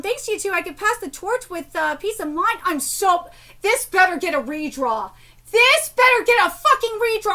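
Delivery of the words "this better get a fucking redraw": angry demand. Real, not acted. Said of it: "I'm so mad".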